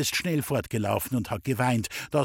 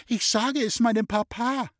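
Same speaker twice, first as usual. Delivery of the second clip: put-on high, tearful child's threat; boy crying he'll tell his dad; wailing child; 10 semitones higher than usual. A narrator's reading. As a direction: wail it like a crying little boy. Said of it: "hat furchtbar geweint und hat immer geschrien".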